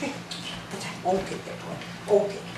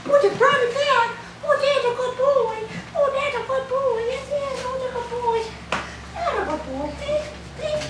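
squeaky, high praise for a dog; high-pitched dog praise. Real, not acted.

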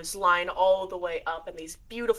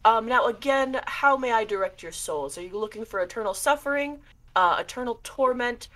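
a hint of a courtly ghoul; mild spooky butler voice; lightly voiced shade; 2 semitones higher than usual. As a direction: greet them like a polite host of the dead. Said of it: "he bows deeply and he goes".

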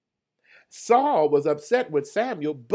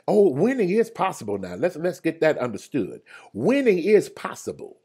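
louder declaration; fired-up proclamation; 3 semitones higher, 5 dB louder than usual. Real, not acted. Preacher rouses the congregation, louder. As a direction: proclaim winning is possible with force. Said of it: "preaching at full force".

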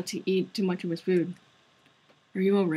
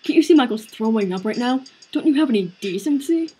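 angry shout; 3 semitones higher, 6 dB louder than usual. Acted. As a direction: yell at him for his lack of decency. Standing up to the teacher.

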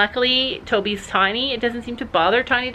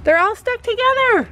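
grossed-out exclaim; 8 semitones higher than usual. Real, not acted. Shocked at mating bugs.

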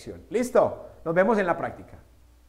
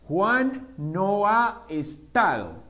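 slow repeat; much slower than usual. Shown as a demonstration. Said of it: "teacher repeats slowly".

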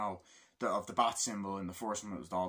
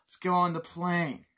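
higher, louder order; mock order to board, raised voice; imitating the agent; 7 semitones higher, 6 dB louder than usual. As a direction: bark it like the agent. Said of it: "blah, blah, blah".

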